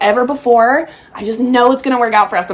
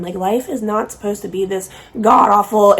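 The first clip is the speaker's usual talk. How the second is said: voice crack. Real, not acted. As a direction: voice cracking on god-awful. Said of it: "did we all just hear my voice crack".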